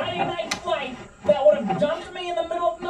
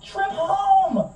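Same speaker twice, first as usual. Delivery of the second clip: retold shout; 3 semitones higher than usual. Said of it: "I'm like".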